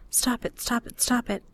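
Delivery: soft urgent whisper to herself; hushed self-scolding whisper. A narrator's reading. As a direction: whisper it, holding back tears. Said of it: "I whisper to myself".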